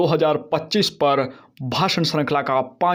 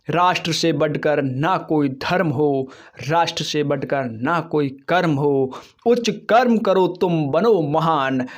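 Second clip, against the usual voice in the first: poem recitation. Acted. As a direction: recite the closing lines with pride. Closing recited verse.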